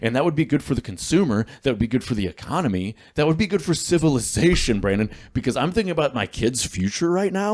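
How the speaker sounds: earnest, quickening plea that climbs in pitch; impassioned rant. Real, not acted. Dad pleading to his co-host for his kids' future, impassioned rant. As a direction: build to a high-pitched, urgent appeal. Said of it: "I don't know why I'm talking like this".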